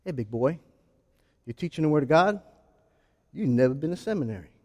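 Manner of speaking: low, soft taunting whisper of the enemy; the devil taunting a preacher, low and soft; sly devil voice. Retold or imitated. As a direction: sneer it quietly like a tempter. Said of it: "he says something like this".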